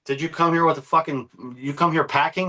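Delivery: high, mocking voice of the furious friend; imitated angry threat. Retelling a friend's challenge at his door, high mock-angry. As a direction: voice him up high, daring and hostile. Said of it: "And he says".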